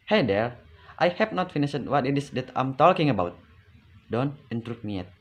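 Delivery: "Hey there" loud, "talking about" swooping up then down; rising-falling reprimand. Shown as a demonstration. Telling off a friend who cut in during discussion, rising-falling reprimand. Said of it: "ada intonasi naik dan ada intonasi turun".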